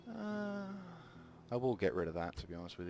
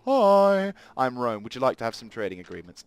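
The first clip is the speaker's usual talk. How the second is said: cheery diplomat greeting; 7 dB louder than usual. Pretend. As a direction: greet them like an eager salesman. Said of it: "say the proverbial".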